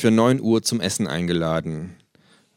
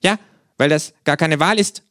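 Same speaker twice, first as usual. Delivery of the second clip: mouth full; 9 semitones higher, 6 dB louder than usual. Acted. Kangaroo character voice.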